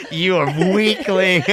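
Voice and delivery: high cackle into a mock gloat; gloating at dad after winning bowling; mock villain gloat. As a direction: laugh then sneer like a cartoon victor. Gloating over beaten dad.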